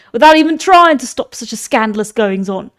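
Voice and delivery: a lightly voiced stern old speaker; old man voice. Mentor rebukes the men of Ithaca, lightly voiced elder. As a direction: scold the assembly like an elder. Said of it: "I'm losing the voice".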